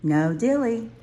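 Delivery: high, sing-song little cub voice; firm reminder. A narrator's reading. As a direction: say it like a gentle rule. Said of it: "what Mama would say".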